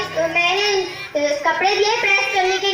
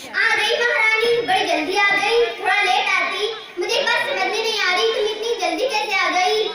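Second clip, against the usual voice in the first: sarcastic taunt. Acted. Sister-in-law mocks the late daughter-in-law, sarcastic. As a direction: needle her for being late, dripping sarcasm.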